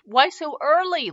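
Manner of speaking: slow whining grown man; whiny man child. A narrator's reading. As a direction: whine it like a sulky child. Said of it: "Lucius whined like a child".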